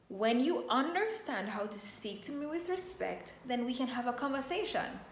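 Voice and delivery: calm green state; calm firm boundary. Shown as a demonstration. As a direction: set the limit calmly. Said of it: "put on my crown".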